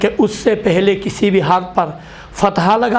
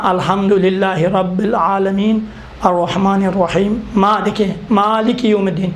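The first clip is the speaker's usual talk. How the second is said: Quran recitation. Shown as a demonstration. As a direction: recite Fatiha as a careful model. Recites Fatiha as model.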